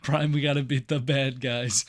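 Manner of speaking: a hint of a doddering old robot rambling; addled old Prime. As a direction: lightly play a muddled old leader who forgot the war. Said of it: "Optimus Prime going through dementia".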